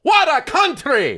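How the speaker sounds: high, loud, slow cry of delight; excited exclamation. Real, not acted. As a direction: shout it out in wonder.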